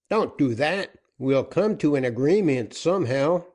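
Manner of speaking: a gruff-tempered captain pressing for terms; outlaw captain. Acted. Joaquin alarmed by burning threat.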